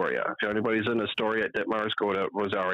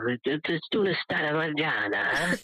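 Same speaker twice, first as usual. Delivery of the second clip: imitating Italian accent; 6 semitones higher than usual. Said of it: "he'll lean in".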